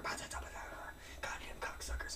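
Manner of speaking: slow whispered cursing under breath; mumbling curses. Retold or imitated. Imitating the pacing Ogre, a slow whispered mumble. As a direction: mutter the curses to yourself. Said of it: "mumbling in Korean and Tagalog".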